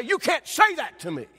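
high, loud acted indignation; mock angry retort. Preacher showing what Jesus never said to mockers, mock mad. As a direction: act out taking offence, punching it out. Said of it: "he doesn't get mad and say".

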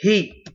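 "هي" as a short, separate hi; short kasra. Shown as a demonstration. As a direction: sound out "هي" with a brief i vowel. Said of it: "ونقرأه مع الكسرة". ("هي" بكسرة قصيرة)

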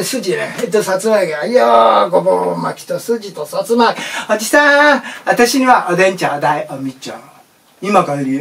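lightly voiced woman at the stall; cheerful weary customer; tired office woman ordering.

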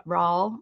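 "Raul" said as one syllable, like "rawl". Shown as a demonstration. Streamer checking a viewer's name, "Raul" said like "rawl". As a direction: rhyme "Raul" with Paul. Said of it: "That's how I would".

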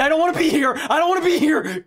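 frightened loud wail; panicked yell. Real, not acted. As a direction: scream it in terror. Panicked gamer yelling.

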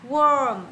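"worm" with the er vowel. Shown as a demonstration. Teacher reading option D aloud, er vowel in "worm". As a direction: model "worm" on an "ơ" sound. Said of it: "đọc là âm ơ".

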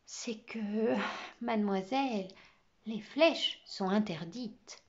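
réponse hésitante, coupée de pauses; embarras. Acted. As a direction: avance les mots avec gêne, lentement. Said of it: "l'air embarrassé". (gêne hésitante d'élève)

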